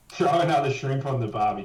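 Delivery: hammed-up Aussie catchphrase; mock Aussie cliché. Aussie mocks the tourist catchphrase, hammed-up.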